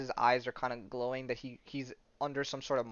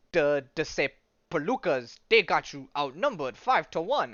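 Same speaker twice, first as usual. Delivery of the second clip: weird speech; 3 semitones higher, 4 dB louder than usual. Acted. Alien warning the hero he is outnumbered, weird voice. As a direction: put on a strange voice with lurching pitch. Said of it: "speaking weird".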